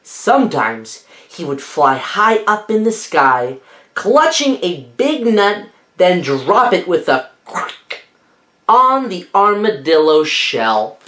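lively read-aloud storytelling; story narration. A narrator's reading. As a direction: read it like a bedtime picture book. Reading picture book aloud.

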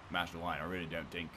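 The speaker's Cockney impression. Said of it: "could you do a Jamaican accent".

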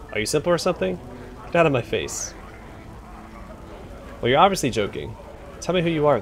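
a lightly voiced surly pit manager brushing him off; gruff pit boss. Surly telling the visitor to beat it, light gruff voice. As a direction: grumble it like a rude bouncer.

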